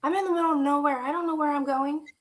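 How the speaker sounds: a breathy, unvoiced whisper to herself; half-lost words said under the breath. Alone on a country road.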